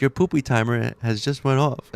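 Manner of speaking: a hint of the device's alert voice; Alexa. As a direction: mimic a voice assistant's notice. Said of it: "And it's like".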